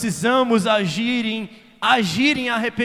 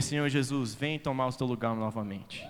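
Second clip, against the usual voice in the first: much softer and lower, intimate plea; hushed prayer; 8 semitones lower, 9 dB quieter than usual. Acted. Preacher whispering a prayer to Jesus, hushed. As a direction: pray it barely above a breath.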